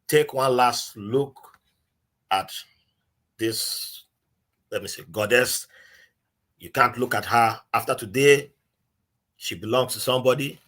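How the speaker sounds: a measured, retold proclamation; town crier announcing. Town crier announces a bride to villagers, lightly imitated announcing. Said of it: "he's just announcing".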